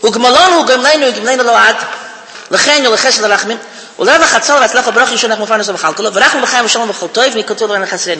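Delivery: kindergarten-learned blessing rattled off; sing-song rote prayer, sinking in pitch as it goes; rote benching. Shown as a demonstration. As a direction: recite it by habit, words running together. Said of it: "it works like this".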